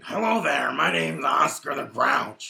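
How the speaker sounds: lightly voiced grumpy puppet greeting; terrible Oscar the Grouch. Mocking co-host with a lightly voiced Oscar the Grouch. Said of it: "That was a terrible Oscar the Grouch impression".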